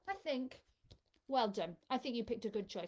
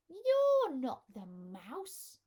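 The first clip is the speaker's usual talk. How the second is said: louder, slowly spelled out discovery; loud, slow exclaim; 4 semitones higher, 7 dB louder, much slower than usual. Acted. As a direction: call out the surprise, slow and loud. Child meets the snake.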